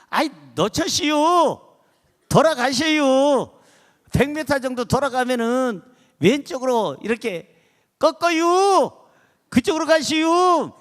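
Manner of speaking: hammed-up satnav in Chungcheong dialect, endings dragged out high. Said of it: "충청도 버전은 얼마나 재밌는지". (높고 길게 끄는 충청도 사투리)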